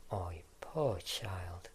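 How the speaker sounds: slow, drawn-out fake sympathy; mock pity. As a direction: lay the pity on thick. Overdone pity, slow and low.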